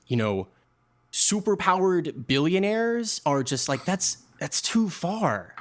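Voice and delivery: mild, weary father pleading with his own father, sighing; a tired son begging his dad to drop the argument; exasperated dad. Acted. Game master as dad, wearily pleading with the grandfather.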